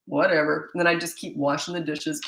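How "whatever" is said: flat, bored Whatever, brushing it off; dismissive whatever. Shown as a demonstration. Parent shrugging off a child's insult, dismissive.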